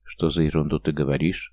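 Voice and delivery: usual speaking voice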